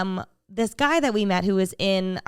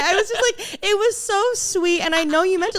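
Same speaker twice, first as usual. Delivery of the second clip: high, emphatic gush after laughing; gushing earnestly; 11 semitones higher, 4 dB louder than usual. Real, not acted. Defends moment after laughing fit.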